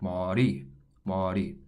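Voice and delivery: mari said as one flap between R and L, "ma ri"; "ma ri" with a light Korean flap, not an English R or L. Shown as a demonstration. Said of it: "a mixture of the R and the L sound".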